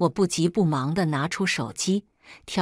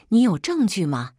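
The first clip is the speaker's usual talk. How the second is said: a taunting, louder sneer; mocking; 2 semitones higher, 4 dB louder than usual. Husband taunts his wife about evidence, sneering. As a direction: scoff at her demand for proof. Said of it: "杨铮嘲笑道".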